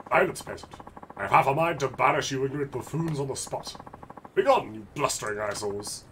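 haughty aristocrat, lightly voiced; a hint of a snooty lord; pompous noble. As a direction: look down your nose at peasants.

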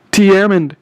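high-pitched, contained cry for help; screamed name. A narrator's reading. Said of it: "I screamed".

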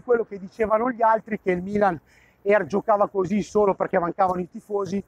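panting while cycling uphill; puffing between words, winded; out of breath. Real, not acted. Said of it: "Scusate il soffiatone, ma sono in salita in bicicletta". (col fiatone)

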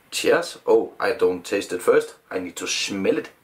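glass in front of mouth; speaking while sniffing drink; talking into a glass. Real, not acted. Seen 1: Glass held at masked mouth and nose throughout the speech.

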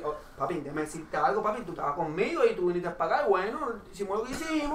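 imitating a coworker's rapid Puerto Rican Spanish; run-on Puerto Rican chatter; fast Puerto Rican imitation. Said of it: "he always talking like that".

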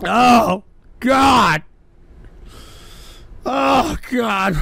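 anguished moaning cry; wailing in despair. Real, not acted. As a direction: groan it out as if sobbing. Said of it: "stop fake crying for sympathy".

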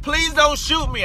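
retold plea to the gunman; scared plea. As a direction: beg for your life, voice up. Begging gunman.

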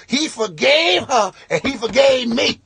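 loud boastful confession over the mic; mock drunk guest yelling his secret; drunk shouted confession. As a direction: shout it to the whole wedding. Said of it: "rapper looking dude".

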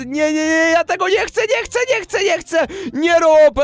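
high, desperate begging; panicked pleading. Real, not acted. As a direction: beg him to stop, voice climbing. Trapped and pelted, begging.

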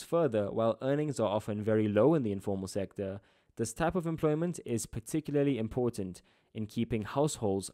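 emphatic textbook read-aloud. Acted. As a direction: read it out clearly with firm emphasis. Reads textbook passage aloud.

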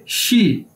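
"शी" with an sh onset and long ee; Chinese XI pronunciation. Shown as a demonstration. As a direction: say "शी" as shee, not see. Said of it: "इसको कैसे बोलेंगे".

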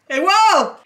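high, excited call to hubby. Real, not acted. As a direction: holler an amazed hey across to hubby. Calling to show hubby plant.

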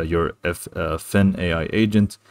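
ordinary delivery

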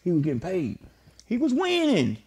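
lost in a daze on the curb; dazed. Retold or imitated. Flip dazed on the curb, softly musing. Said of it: "he looking like".

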